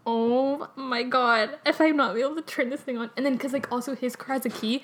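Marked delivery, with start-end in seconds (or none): 0.0-3.1 drawn-out mock dismay; slow, stretched-out worry, playing up the dread; retold dread. Learner recalls facing an unfamiliar car, mock dread.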